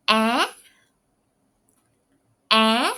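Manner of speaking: the letter e said slowly and clearly, twice; letter name demo. Shown as a demonstration. Teacher modeling a letter name, clear and loud. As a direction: model the letter "e" for students to repeat. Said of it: "the name of it is".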